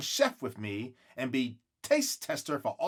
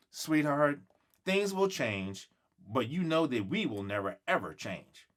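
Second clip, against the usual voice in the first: tender reassurance; 4 dB quieter than usual. Acted. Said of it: "looks at me with care in her eyes".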